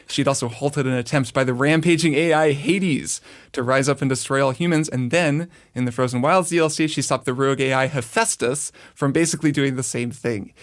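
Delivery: dramatic backstory narration; dramatic intro. Acted. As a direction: read it like a movie trailer. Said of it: "Dramatic Kirk intro".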